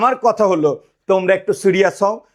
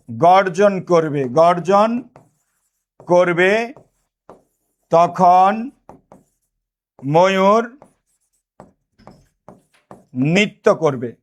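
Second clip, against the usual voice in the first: slow dictation; much slower than usual. Shown as a demonstration. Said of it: "teacher dictating word by word".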